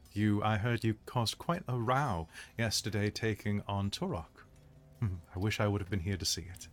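soft, lightly voiced commander; courteous host. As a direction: make quiet, interested small talk. Plays the host addressing a guest.

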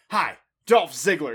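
loud, slow self-introduction; emphatic wrestler introducing himself; Dolph Ziggler. Retold or imitated. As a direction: punch out the name like a gimmick greeting. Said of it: "you're saying it in that tone".

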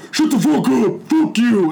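high, strained neighbour's shout; imitated angry yell. Neighbour shouting back through the wall, retold angry yell. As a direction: yell it like you're banging on the wall.

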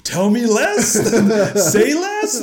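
loud, high, laughing excitement; hyped-up reaction. Retold or imitated. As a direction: blurt it out, thrilled and half laughing. Acting out own hyped reaction.

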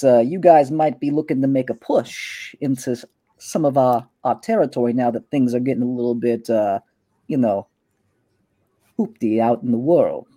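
a hint of a swaggering street boss; smug gang boss. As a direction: Kalen sizing up a rival in his turf. Kalen interrogates Tower.

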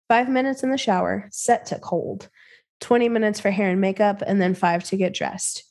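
measured, deliberate read-aloud; story narration. A narrator's reading. Host reading a creepypasta to a co-host, measured story narration. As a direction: narrate it evenly with crisp phrase breaks.

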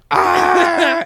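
put-on high loud kid's shriek; a short piercing yell; mock scream. Kid stops and screams.

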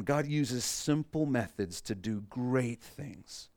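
slow, deliberate, every word weighed; slow dictation. Shown as a demonstration. Pastor dictating a key line to the congregation, slow and deliberate. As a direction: spell it out so they can write it. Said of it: "So write this down".

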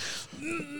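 high breathy burst of laughter; a quick high laugh. Real, not acted. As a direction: laugh out at the memory. Laughing at friend's changing voice.

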